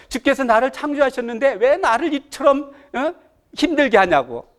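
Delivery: protesting to God. Retold or imitated. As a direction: demand an explanation, mildly aggrieved. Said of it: "이렇게 따지고 있습니다". (따져 묻듯이)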